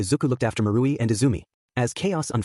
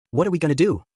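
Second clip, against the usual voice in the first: mildly panicked, higher-pitched question; rising panic; 6 semitones higher, 3 dB louder than usual. A narrator's reading. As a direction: let a touch of panic lift the voice. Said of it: "his voice rising with panic".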